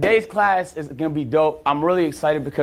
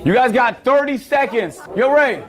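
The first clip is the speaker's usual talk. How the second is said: higher-pitched call across the classroom; 5 semitones higher than usual. Pretend. Teacher timing a pop quiz, calling out. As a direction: announce it to the whole room.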